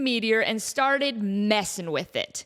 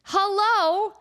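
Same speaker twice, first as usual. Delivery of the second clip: mock shock; 8 semitones higher, 3 dB louder, much slower than usual. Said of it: "And I'm like".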